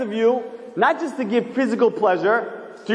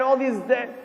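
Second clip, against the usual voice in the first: usual speaking voice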